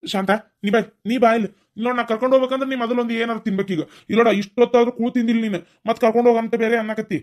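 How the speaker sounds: elder scolding daughter who refuses food; scolding coax. Acted. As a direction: nag her firmly to come eat. Elder scolding her to eat.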